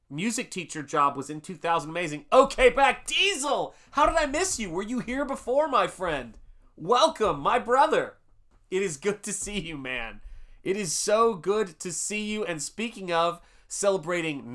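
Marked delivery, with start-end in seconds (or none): 2.3-12.4 much higher and louder, delighted greeting; real joyful hello to a returning member; excited welcome. Real, not acted.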